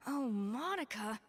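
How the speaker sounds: slow, drawn-out exasperated Oh, Monica!; head chef losing patience; exasperated cry. Acted. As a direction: let the exasperation burst out. Chef reacts to the note.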